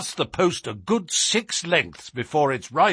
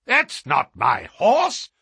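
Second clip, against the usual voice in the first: mildly raised, slow protest; indignant cry; 2 semitones higher, 4 dB louder, slower than usual. Acted. Owner rejects the horse going past, crying out. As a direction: cry out in disbelief. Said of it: "cried the owner".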